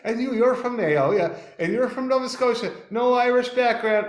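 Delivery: high, loud interviewer impression; quizzing radio host. Radio host quizzes guests on Irish roots, high loud imitation. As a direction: play the host checking each guest's roots. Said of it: "she's like".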